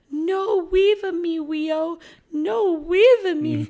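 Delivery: high, loud mock wail of a toddler; crying toddler. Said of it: "his lip curls".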